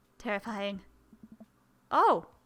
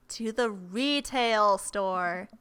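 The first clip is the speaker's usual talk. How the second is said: yelled punchline; 4 dB louder, much slower than usual. Acted. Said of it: "I yell that last bit a little too loud".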